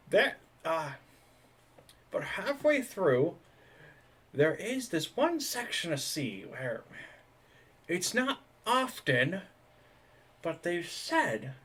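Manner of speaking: slow ominous whisper-like. Acted. NPC leans in, slow ominous.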